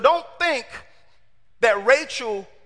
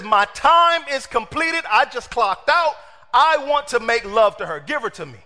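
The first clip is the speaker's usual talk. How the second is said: insistent demand; 3 semitones higher, 4 dB louder than usual. Retold or imitated. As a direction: lay down the terms like a worker clocking out. Jacob demanding his wife from Laban.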